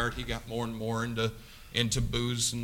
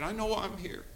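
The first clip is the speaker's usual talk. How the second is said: higher, then softer, imitating tears; retold tearful confession; 4 semitones higher, 5 dB quieter than usual. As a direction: quietly act out a tearful young man. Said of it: "tears rolled down his face".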